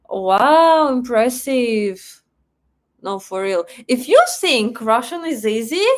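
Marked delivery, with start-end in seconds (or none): 0.1-2.2 genuinely wowed by the message; impressed wow. Real, not acted. Streamer reacts to a viewer's message, impressed.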